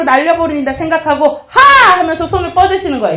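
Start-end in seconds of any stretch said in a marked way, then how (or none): 1.5-2.0 forceful single "ha" burst; demonstrative big "ha"; loud stress-release laugh. Shown as a demonstration. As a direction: fling the stress out in one laugh. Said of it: "큰 소리로 내 몸에 있는 스트레스를 밖으로".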